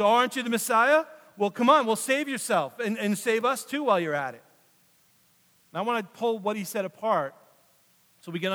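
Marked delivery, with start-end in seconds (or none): 0.0-4.4 louder sneering jeer at Jesus; mocking taunt. Criminal on the cross mocks Jesus, loud sneering taunt. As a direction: taunt him, a mock challenge. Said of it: "starts insulting him, making fun".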